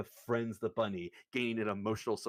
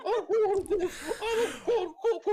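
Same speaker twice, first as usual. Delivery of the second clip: put-on high, shrieking drunk boast at his reflection; drunk yelling; 8 dB louder than usual. James yells at his own reflection, drunk shrieking. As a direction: scream it out, half laughing, wildly proud. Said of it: "stares at his reflection going".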